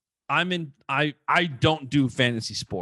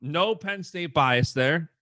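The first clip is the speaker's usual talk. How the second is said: slow, dry sarcastic aside; 3 semitones higher, slower than usual. Real, not acted. Host teasing his own Penn State pick, sarcastic. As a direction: stretch it out with tongue in cheek. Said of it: "I'm being sarcastic there".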